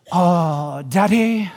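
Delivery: lightly voiced pleading ten-year-old; a hint of a coy little daughter; whiny little girl. Daughter coming to her dad's bedroom, mock coy whine. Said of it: "She doesn't really talk like that".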